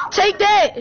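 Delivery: high, slow gloating shout; triumphant taunt. Real, not acted. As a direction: gloat as you strike back.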